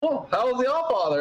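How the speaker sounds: high, quick chatty question; playful greeting. Retold or imitated. Walker greets passing ravens about the All Father, playful greeting. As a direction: chirp it as small talk to a bird.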